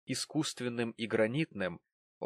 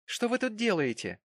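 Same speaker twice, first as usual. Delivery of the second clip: put-on young lady's voice; 10 semitones higher than usual. A narrator's reading. Cherry questions Tom.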